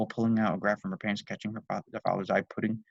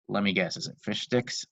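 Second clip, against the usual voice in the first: deadpan. Acted. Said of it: "in a deadpan manner".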